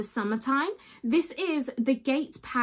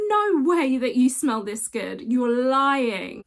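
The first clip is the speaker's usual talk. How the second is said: mock disbelief; 5 dB louder, slower than usual. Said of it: "I was like".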